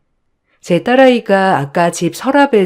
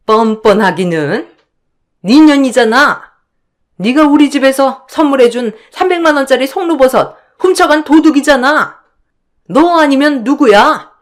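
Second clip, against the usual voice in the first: higher, harsher shouted accusation; furious accusation; 6 semitones higher than usual. Acted. Sister-in-law yelling at the narrator that she stole the truffle. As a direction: jab each word at the thief.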